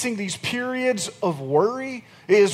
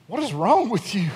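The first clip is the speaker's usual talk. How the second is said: God exasperated. Retold or imitated. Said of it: "look at us sometimes and say".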